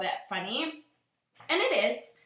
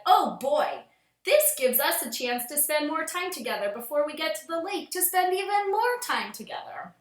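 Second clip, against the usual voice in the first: lovestruck newlyweds; 5 semitones higher than usual. Acted. Lovestruck newlyweds gaze and speak.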